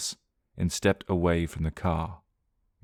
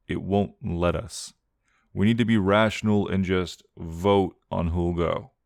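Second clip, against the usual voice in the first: a lightly voiced cold older brother; cold practical reasoning with a touch of humour; Johnny, grim and wry. Johnny telling the group they must vote.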